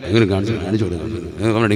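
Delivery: low, soft muttered grumble under the breath; imitating a wife's low grumble; grumbling mutter. Shown as a demonstration. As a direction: mutter it like a wife complaining to herself over the washing. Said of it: "ഇങ്ങനെ പിറുപിറുക്കുന്നത് നിങ്ങൾക്ക് കേൾക്കാം".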